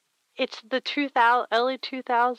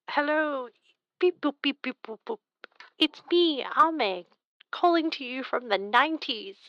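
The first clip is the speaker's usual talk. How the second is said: toy robot voice; 3 semitones higher than usual. Pretend. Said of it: "Is this what you want?".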